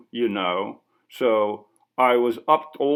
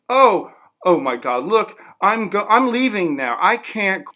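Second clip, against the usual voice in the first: higher, rushed panic, mildly acted; a touch of terror, trying to flee; panicked; 9 semitones higher, 5 dB louder than usual. Interviewer panicking when the artist shows a gun, mildly acted.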